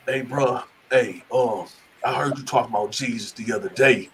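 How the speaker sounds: low, soft, secretive undertone; imitating a furtive, low murmur; retold whisper. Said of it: "He was whispering".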